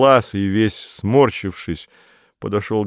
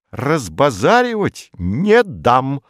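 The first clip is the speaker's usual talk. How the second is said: curt; 6 semitones higher, 4 dB louder, slower than usual. A narrator's reading. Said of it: "коротко ответил тот".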